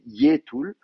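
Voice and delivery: "yé tul" with yai narrowed to a single é; contracted diphthong. Shown as a demonstration. Teacher showing the contraction's result, "yé tul" with one é vowel. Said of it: "vous allez avoir une contraction".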